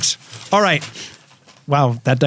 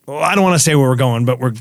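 ordinary delivery

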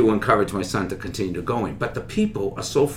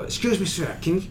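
polite asking; 7 semitones higher than usual. Retold or imitated. Politely asking state trooper.

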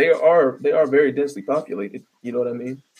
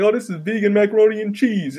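higher, put-on voice of a smug vegan; mock vegan voice; 7 semitones higher than usual. Ranting comic mocks a vegan's cheerful food boast. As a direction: lightly send up a proud vegan showing off the dish.

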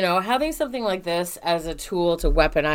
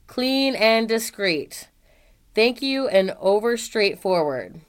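all in one breath; slower than usual. Shown as a demonstration. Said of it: "this is all one run-on sentence, so I'm going to try to read it".

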